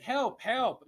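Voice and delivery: high mock plea with Russian colouring; Russian-sounding Wade. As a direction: imitate a teammate calling for help. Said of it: "making Wade sound like he's Russian".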